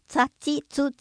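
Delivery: つ つ as "tsa, tsi, tsu, tse, tso"; tongue-tip TS on each つ syllable; Yayoi TS-row. Shown as a demonstration. Narrator shows the ancient S-row, with TS sounds. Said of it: "舌で発音していたのではないか".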